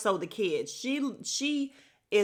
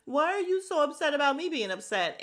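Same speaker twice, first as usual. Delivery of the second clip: mocking high whine; 6 semitones higher than usual. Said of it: "she's like".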